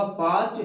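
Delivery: "पांच" said as पाच, vowel not nasalised; without chandrabindu. Shown as a demonstration. Teacher removes the dot for students, "पांच" said oral as पाच. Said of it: "और यदि यहाँ बात करें".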